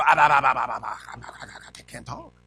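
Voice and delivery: stuttered excuse, dying away; mock stammering. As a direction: act suddenly unable to get words out. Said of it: "as soon as God says".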